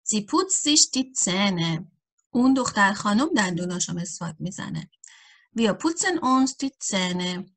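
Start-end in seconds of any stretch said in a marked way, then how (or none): 0.0-1.8 each word laid out slowly for learners; slow dictation German. Acted. Teacher reading an example sentence to beginners, slowly. 5.6-7.5 each word laid out slowly for learners; slow dictation German. Acted. Teacher reading an example sentence to beginners, slowly.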